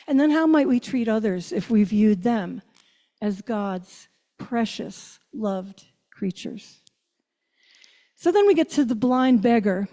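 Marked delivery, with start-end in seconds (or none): 3.2-6.8 slow and hushed, savoring each word; softly lingering on precious and loved; tender refrain. Acted. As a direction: lay it down gently like a blessing. Tender refrain of God's love.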